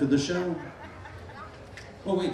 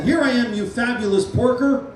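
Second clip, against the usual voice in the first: yelled greeting; 6 semitones higher, 4 dB louder than usual. Shown as a demonstration. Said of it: "jump up and yell".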